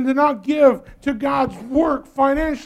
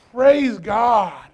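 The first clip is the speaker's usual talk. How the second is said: shouted Praise God; 3 dB louder than usual. Shown as a demonstration. Preacher showing the congregation how to praise God in hard times, shouting. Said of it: "we gotta scream the loudest".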